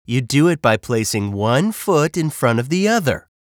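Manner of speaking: a touch of condescension; mock explaining. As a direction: spell out the obvious, mildly exasperated. Grumpy bird explains the obvious.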